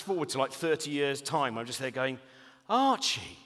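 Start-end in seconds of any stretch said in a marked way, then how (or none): 2.7-3.4 loud, slow, appalled questioning; dad confronting killer son, loud and slow; mock horrified father. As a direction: demand it like a shocked father. Imagined future confrontation with son.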